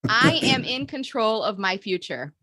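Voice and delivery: slow, deliberate affirmation; each word stretched with conviction; mantra lead. Shown as a demonstration. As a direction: lead it for a group to repeat. Leading group affirmation for repeating.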